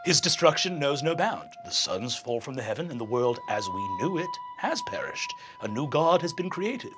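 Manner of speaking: quietly foretell ruin; grave low lecture. Acted.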